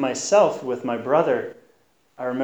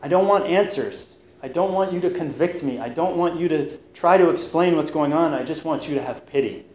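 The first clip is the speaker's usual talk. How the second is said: mildly pleading, raised at the start; retold begging; 3 semitones higher than usual. Preacher voicing Job begging friends for pity, mildly pleading. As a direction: beg earnestly, easing down toward the end. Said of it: "You just hear him begging".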